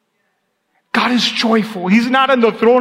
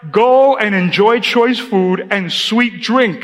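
slow, deliberate verse reading; unhurried pulpit reading; scripture reading; slower than usual. Acted. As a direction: read it out slowly to the congregation. Reads scripture slowly.

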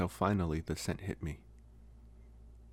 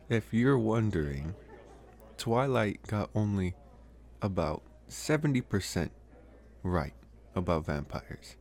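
laughing aside; 2 semitones higher than usual. Acted. Vampire teases the roommate about Twilight, laughing.

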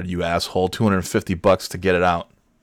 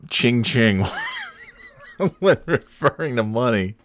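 laughing shout; 5 semitones higher than usual. Real, not acted. Mocking the phrase, laughing.

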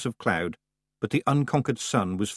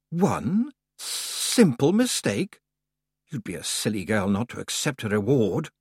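Summer Lady voice. Acted. Summer Lady speaks again.

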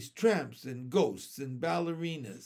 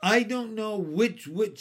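put-on high, louder aggrieved child; upset complaint; 6 semitones higher, 7 dB louder than usual. A narrator's reading. Teased girl answering her teacher, upset. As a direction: protest it, wronged.

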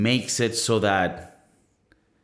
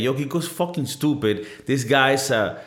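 mock Spanish critic; 3 semitones higher than usual. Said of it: "That's how I would say it".

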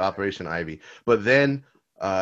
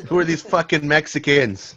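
higher mock angry mom; 7 semitones higher, 6 dB louder than usual. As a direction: play the annoyed mom, hammed-up. Mocking mom's line.

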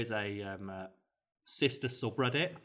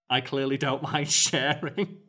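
slow, louder mock self-justification; mock protest; 2 semitones higher, 5 dB louder, slower than usual. Boyfriend defending himself to commenters, mock indignant. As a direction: drag it out in hammed-up protest, laughing.

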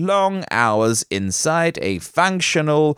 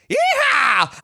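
high, hammed-up cowboy whoop; mock cowboy yell. Host parodying a Texan in a mock cowboy yell. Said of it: "That was a terrible accent".

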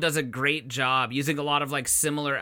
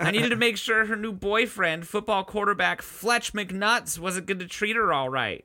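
higher, hesitant, stumbling testimony; awkward, nervous witness; 5 semitones higher than usual. Acted. Dumped prom date testifying in court, awkward nervous voice. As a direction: stammer through it with lots of uhs.

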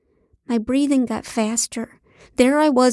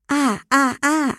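short, higher put-on moans; fake moans; 5 semitones higher than usual. A narrator's reading. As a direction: moan in small bursts for show. Faking moans for cameras.

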